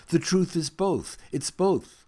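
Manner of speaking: a sudden high, loud blurt. Retold or imitated. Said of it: "I blurted out".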